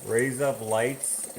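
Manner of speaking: "Raise Up Lights" as Australian "razor blades"; rough go at an Australian accent; Australian accent attempt. Shown as a demonstration. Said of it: "is razor blades with an Australian accent".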